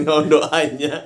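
mock solemn prayer; slow, like a church blessing; churchy prayer voice. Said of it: "gereja aja".

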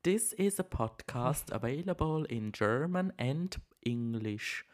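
robotic safety announcement voice; flight attendant voice. Pretend. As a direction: read it like an automated in-flight video. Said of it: "du hörst dich jetzt an wie so".

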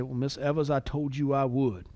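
put-on Southern accent. Lawyer answering the exasperated widow, soft Southern accent. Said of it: "in his horrible Southern accent".

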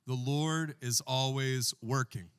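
slow, drawn out, all together; call and response. Shown as a demonstration. Pastor leading the church in unison, slow. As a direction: lead them word by word. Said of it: "Say it with me".

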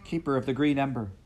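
high, loud screamed demand; screaming. Acted. Heather screaming at Kyle, furious. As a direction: scream it into his face. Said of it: "She was screaming at him".

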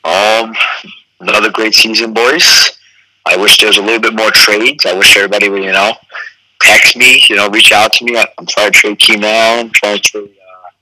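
lost voice, congested; stuffy nose. Real, not acted. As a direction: talk through a cold. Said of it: "You sound like you have a cold".

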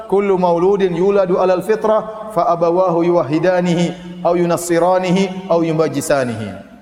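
slow chanted Arabic; hadith recitation. Acted. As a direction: recite the hadith slowly and melodically.

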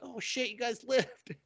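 high-pitched mock amazement; surprised. Staff greeting the returning survivors, surprised. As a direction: voice jumps up in disbelief.

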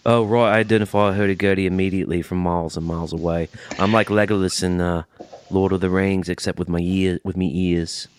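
mock Liverpudlian connoisseur; accent of a famous band. Boasting of his keen ears to co-host, mock accent of a famous Liverpool band. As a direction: put on a hammed-up Liverpool accent. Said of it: "you're going into a Beatles accent".

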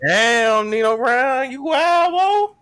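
amazed. Real, not acted. Amazed reaction, rising pitch.

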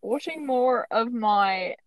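put-on shaky grasp of an Australian accent; bad Australian accent. Host admits she is out of practice, bad Australian accent. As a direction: attempt a rusty Australian accent. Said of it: "my Australian accent is really bad".

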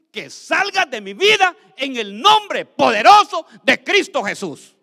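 firm rebuke building to a loud, high shout; exorcist's command rising in force; commanding the demon. Acted. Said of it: "Dígale".

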